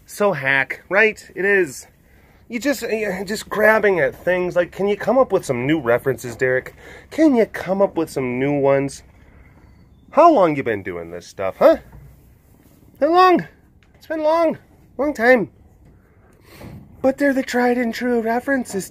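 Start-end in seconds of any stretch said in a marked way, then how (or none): 2.5-11.8 mock-effeminate Southern scolding; pseudo-effeminate Southern accent. Self-critic heckling Derek about his references, pseudo-effeminate Southern accent. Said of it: "in a pseudo-effeminate, uh, Southern accent". 13.0-18.9 very high, mock-effeminate Southern voice; pseudo-effeminate Southern accent. Inner critic defending the old references, pseudo-effeminate Southern accent. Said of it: "in a pseudo-effeminate, uh, Southern accent".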